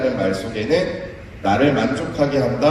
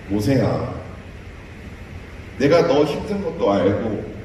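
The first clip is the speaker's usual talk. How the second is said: loving God; 2 semitones lower than usual. Acted. God speaks lovingly to Moses.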